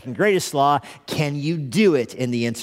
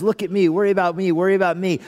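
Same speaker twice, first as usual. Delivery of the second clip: attention-seeking voice; 4 semitones higher, 3 dB louder, faster than usual. Acted. Worldly worry clamours for attention.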